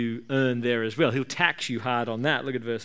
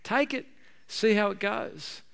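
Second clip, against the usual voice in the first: voicing God; 7 semitones higher, 3 dB quieter than usual. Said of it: "Occasionally God will say".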